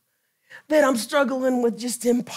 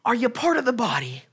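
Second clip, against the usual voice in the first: quick example question; faster than usual. Shown as a demonstration. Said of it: "Turn to him".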